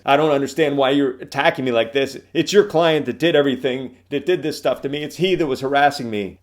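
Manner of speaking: high, loud, tearful protest; crying witness. Retold or imitated. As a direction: plead like a wronged, weeping witness. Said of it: "the person starts crying and says".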